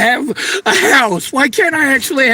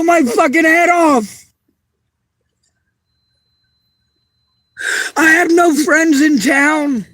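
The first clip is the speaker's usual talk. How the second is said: real tearful outburst. Real, not acted. Breaking down over abuse.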